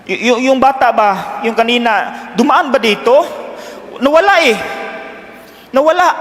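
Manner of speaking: put-on panicked mother who just lost her child; frantic mother. Mother asking the father about the lost child, panicked and pleading.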